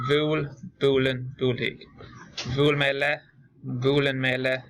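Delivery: steady teacher's drill, each form set apart by pauses; pronunciation drill. Shown as a demonstration. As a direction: model each Irish word clearly for the class to copy. Teacher drills verb forms aloud.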